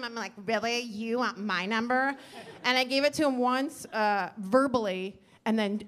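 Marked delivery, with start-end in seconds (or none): 0.5-2.2 extra snotty. Retold or imitated. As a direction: drag out the question, mildly disdainful. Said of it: "Just extra C-wordy with him".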